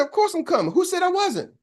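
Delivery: high-pitched imitated protest; mock indignation. Speaker asked if he's coming, retold as indignant. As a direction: act out a friend taken aback at being doubted.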